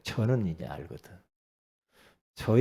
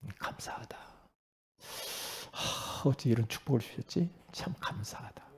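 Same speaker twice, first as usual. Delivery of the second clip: 숨소리로 속삭이듯 감사하기; 혼자 조용히 읊는 감사 기도; 속삭이는 감사 기도; 10 dB quieter than usual. Shown as a demonstration. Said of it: "딱 나와야지". (숨죽여 속삭이는 감사 기도)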